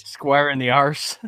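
slow put-on Scottish brogue; mock Scottish accent. Host echoes co-host's joke threat, mock Scottish accent. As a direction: draw it out in fake Scottish. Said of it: "We're getting Scottish".

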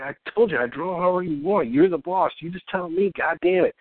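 retold fed-up comeback; exasperated retort. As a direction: act out losing patience with a client. Retelling fed-up answer to indecisive client.

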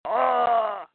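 drawn-out mock groan; pained groan. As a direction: groan long, as if struck. Guard is hit in acted fight.

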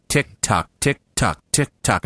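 steady spoken clockwork tick-tock; regular, mechanical beat; metronome ticking. Shown as a demonstration. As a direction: imitate a metronome, evenly spaced. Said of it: "The metronome is going".

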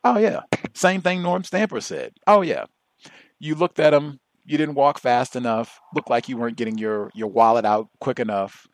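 high, sarcastic officer impression; mock officer. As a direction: tick off the excuses like a jaded cop. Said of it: "he was saying".

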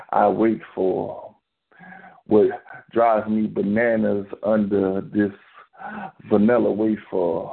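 poetry reading. Acted. Reads a sensual poem on air.

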